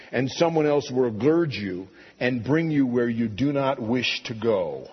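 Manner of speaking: solemn Bible reading voice; scripture reading. Acted. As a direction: read the gospel aloud with weight. Reads the verse aloud.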